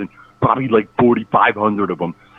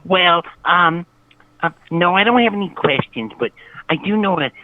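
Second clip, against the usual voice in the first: put-on voice. Caller pranking the rap interview hosts in a disguised voice. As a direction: fake a voice you don't normally use. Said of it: "Um, this is not my real voice".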